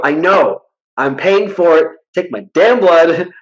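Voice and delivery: acted-out impatient insisting; retold exasperated demand. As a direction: argue back at the doctor, fed up. Retold argument with his doctor.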